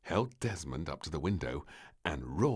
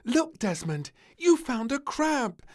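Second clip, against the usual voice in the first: high, loud, slow delight; delighted child; 9 dB louder than usual. Acted. Little Princess showing Desmond a crab, high delighted call. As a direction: point it out with wonder. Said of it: "said little Princess, pointing".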